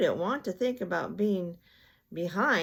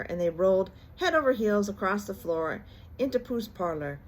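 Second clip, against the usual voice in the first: usual speaking voice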